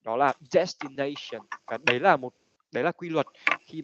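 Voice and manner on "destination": "destination" with the stress on NA; stress on third vowel. Shown as a demonstration. Teacher showing students the stress rule, "destination" stressed on NA. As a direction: lean on the "na" in "destination". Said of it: "nó sẽ rơi vào nguyên âm thứ ba".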